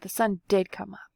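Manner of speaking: growl. Acted. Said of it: "Bear growled".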